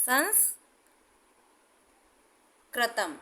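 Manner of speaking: संस्कृतम drawn out very slowly, ending on a clear म; slow demo word. Shown as a demonstration. Teacher slowly pronouncing संस्कृतम for her students. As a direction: sound out संस्कृतम syllable by syllable. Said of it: "मैं आपको शब्द बताती हूँ".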